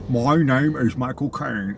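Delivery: very slow, put-on British accent; Michael Caine. Co-host playfully pretends to be the British actor, slow mock British accent. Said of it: "I can't do a British accent".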